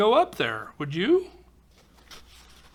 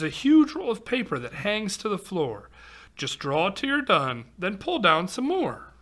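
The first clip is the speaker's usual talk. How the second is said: lively singsong storybook read-aloud; reading to children. Acted. Reading a rhyming picture book aloud to kids, lively storytelling. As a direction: read the rhyme to a young audience.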